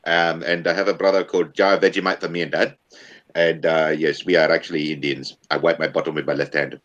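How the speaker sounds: put-on Indian accent. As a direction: talk in a hammy Indian accent. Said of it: "go back into your Indian accent there".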